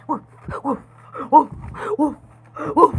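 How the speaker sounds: short woofs like a barking dog; dog bark imitation. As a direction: bark like the dogs next door. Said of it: "My dogs are barking".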